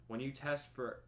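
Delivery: words stretched by a yawn. Real, not acted. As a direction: speak through a yawn. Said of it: "if I yawn one more time".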